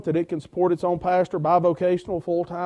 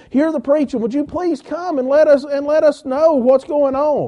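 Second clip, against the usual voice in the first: eager and higher, pressing the invitation; excited invitation; 6 semitones higher than usual. Retold or imitated. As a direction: retell the shop owner's excited request, pitched up. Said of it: "he got excited".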